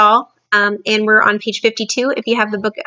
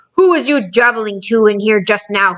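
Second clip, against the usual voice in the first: booming; 3 dB louder than usual. Acted. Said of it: "he boomed".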